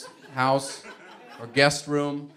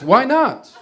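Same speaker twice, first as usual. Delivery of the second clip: loud, high, hammed-up Italian accent; indignant Italian tourist, pitched way up; mock Italian tourist; 9 semitones higher, 9 dB louder than usual. Italian visitor questioning the train route, mock Italian accent.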